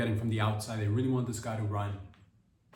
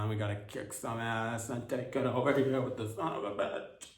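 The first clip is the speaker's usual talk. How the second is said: mock tough-guy cursing; slower than usual. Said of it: "That's my impression of Gavin Newsom".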